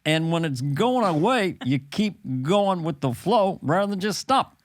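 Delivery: lightly voiced president giving a gentle lecture; a hint of presidential reasoning; Barack Obama. President advising Dana on momentum, lightly impersonated. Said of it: "this is Barack Obama".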